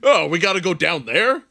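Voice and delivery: high whiny reluctant voice. Pretend. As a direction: whine like you don't want to go. Joking about ocean dive.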